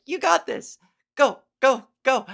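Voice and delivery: high, lively go go go; rally him to the finish; cheering. Pretend. Cheering the kid on near the end, eager. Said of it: "you're like".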